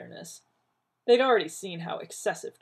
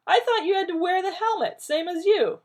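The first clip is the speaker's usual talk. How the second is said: loud, higher angry bark; 13 semitones higher, 9 dB louder than usual. Acted. John snapping back at Rodney, loud angry bark. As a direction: fire it back defensively. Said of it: "John barked".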